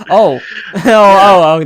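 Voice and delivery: laughing. Real, not acted. Laughing on realizing what was meant.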